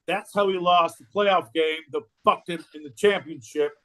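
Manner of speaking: high-pitched incredulous lecture; worked-up, high-voiced rebuttal; mock indignation. Mock outrage defending a film.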